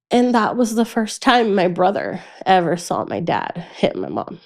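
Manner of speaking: ordinary talk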